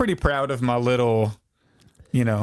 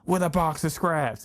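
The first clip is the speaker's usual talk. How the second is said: high, yelled villain line; Obadiah Stane yell; 6 semitones higher than usual. Imitating the Iron Man villain yelling at his men. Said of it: "the guy that yells".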